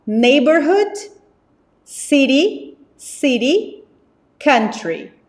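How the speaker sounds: slow, clear vocabulary modelling; model pronunciation. Shown as a demonstration. Teacher modelling words for the class to repeat. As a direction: say each word slowly for students to repeat. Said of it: "Repitam de casa".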